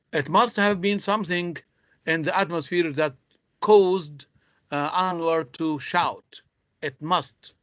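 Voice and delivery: "must" picked out with extra weight; stress on MUST. Shown as a demonstration. Teacher stressing important words, weight on "must". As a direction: lean firmly on the word "must". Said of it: "I'm stressing on, uh, words which are very important".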